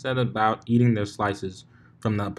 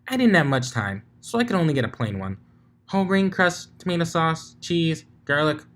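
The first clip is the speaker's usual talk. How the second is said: Pinky voice; 6 semitones higher than usual. Acted. Pinky character voice.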